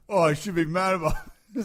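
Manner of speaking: a lightly put-on Asian accent, teasing; a jokey Asian accent with a rise at the end; mock Asian accent. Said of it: "I just thought you were gonna do an Asian accent".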